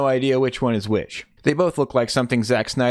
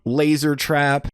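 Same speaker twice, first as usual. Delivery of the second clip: mock father; 4 semitones higher, much slower than usual. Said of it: "Father's like".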